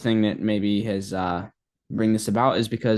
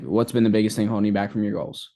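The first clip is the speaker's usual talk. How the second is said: flat, uninterested question. Shown as a demonstration. Sales coach demonstrating the wrong flat tone on a call. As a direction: ask it like you don't care. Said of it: "tonality of, you know, flatness".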